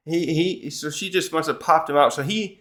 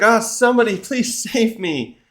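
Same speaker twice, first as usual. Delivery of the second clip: high-pitched pleading, half laughing; mock panic; 8 semitones higher than usual. Nami calls for somebody to save her, playfully panicking. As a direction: imitate a panicked cry for rescue. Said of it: "now she's panicking".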